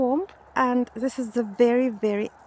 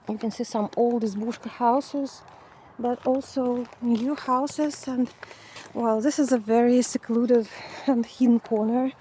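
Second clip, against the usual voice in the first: out of breath in the heat; breathless, winded from walking; running out of air. Real, not acted. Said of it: "sorry that I'm running out of breath".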